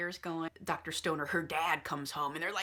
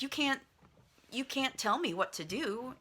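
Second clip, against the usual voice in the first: lightly acted defiance, pitched higher; retold higher-voiced protest; defiant daughter; 6 semitones higher than usual. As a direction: push back at a controlling father, half in earnest. Daughter defies father in retold quarrel.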